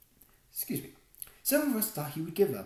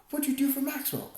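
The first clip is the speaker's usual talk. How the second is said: loud, high yell; yelled question; 9 semitones higher, 6 dB louder than usual. A narrator's reading. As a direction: yell it across the scrum. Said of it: "a third one yelled".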